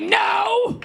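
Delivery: high, haughty mock shout; arrogant. Woman re-enacting her rejection of a man, arrogantly. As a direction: brush someone off with hammed-up arrogance. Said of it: "So I was arrogant".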